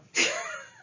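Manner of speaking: strained high cry of frustration; high tearful outburst. Real, not acted. Woman overwhelmed by anger, crying out. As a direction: let out a high wordless cry.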